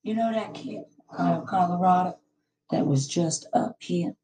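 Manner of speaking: hoarse from screaming; rough, worn-out voice after yelling. Real, not acted. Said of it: "Excuse my hoarse voice".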